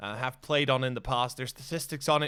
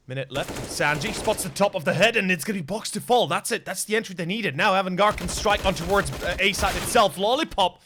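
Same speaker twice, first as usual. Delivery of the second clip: esports caster; 4 semitones higher, 3 dB louder than usual. Real, not acted. Rising action in live cast.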